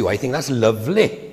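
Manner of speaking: a light sing-song Welsh lilt on lovely. Retold or imitated. Retelling the Welsh pastor's catchphrase to the congregation, in a light sing-song Welsh lilt. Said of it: "that's how he said it".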